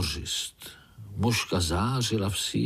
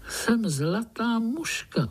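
calm; 12 semitones higher, slower than usual. Acted. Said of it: "odpověděla Zlatuška klidně".

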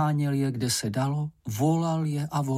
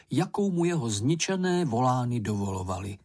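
ordinary delivery, nothing marked

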